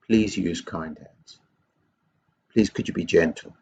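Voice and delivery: low, kindly plea; gentle request. Shown as a demonstration. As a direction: ask gently, pitched low and unhurried. Models a kind request to hitter.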